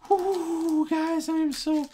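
high, loud, giddy relief; overwhelmed excitement. Real, not acted. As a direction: let the thrill spill out. Still overwhelmed by the pull.

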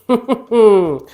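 a sudden high laugh; burst of laughter. Real, not acted. Fortune teller laughing loudly at the drawn card.

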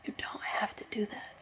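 soft unvoiced whisper. Real, not acted. Vlogger whispers a plea to the rapper, hushed. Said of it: "I had to whisper".

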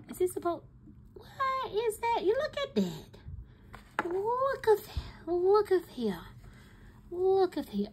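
high, squealing what-is-this shock; shocked disbelief. Real, not acted. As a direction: stare at the mess and squeal in disbelief. Confused by leaking fountain pen.

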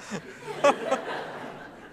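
high, airless laugh that rises; breathy laugh. Real, not acted. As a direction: laugh at your own joke. Laughing about half a pound.

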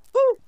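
brief imitated "whew"; little breath out. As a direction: demonstrate a small relieved-sounding exhale. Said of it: "let out that little".

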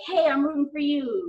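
imitating a supportive holler; mild imitated holler. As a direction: call out encouragement to a teammate, lightly. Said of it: "hollering at one of the teams".

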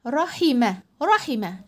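quick kasra in رحمة; short i in رحمة. Shown as a demonstration. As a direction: keep the i of رحمة brief. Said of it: "هنقولها سريع عشان هي حركة قصيرة".

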